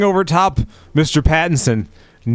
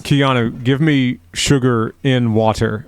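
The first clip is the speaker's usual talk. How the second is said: Keanu Reeves imitation; slower than usual. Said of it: "you're not gonna try the accent".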